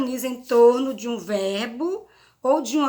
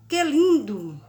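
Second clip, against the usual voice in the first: exclamation; 3 semitones higher, 5 dB louder, slower than usual. Shown as a demonstration. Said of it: "O emissor da mensagem manifesta emoção, surpresa".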